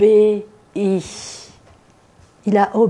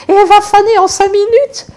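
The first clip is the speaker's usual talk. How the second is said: high laughing exclamation; 11 semitones higher, 6 dB louder than usual. Real, not acted. Preacher marvelling at fading flowers, laughing. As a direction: laugh through it, amazed.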